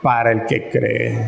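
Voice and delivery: very slow, phrase by phrase, dropping at the end; emphatic rereading. Acted. Preacher rereads the key verse to believers, slow and emphatic. Announces he will read it again.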